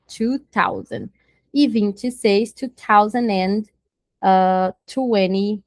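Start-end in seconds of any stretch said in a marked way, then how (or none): 0.1-1.1 slow model. Shown as a demonstration. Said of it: "o mil é o thousand".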